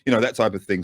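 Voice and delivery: put-on I say old boy, upper crust; lightly voiced posh officer; posh English accent. Shown as a demonstration. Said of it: "more gruff voice".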